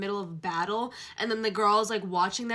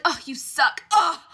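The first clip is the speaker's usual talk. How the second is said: flustered; 7 semitones higher, 11 dB louder, slower than usual. Acted. Heroine flustered.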